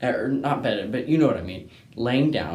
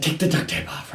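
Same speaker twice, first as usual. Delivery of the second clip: a higher, louder mock bark of dad's order; imitating dad's yell; 7 semitones higher, 4 dB louder, faster than usual. Son imitating his impatient dad, a higher mock bark. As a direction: play the impatient father barking at his son.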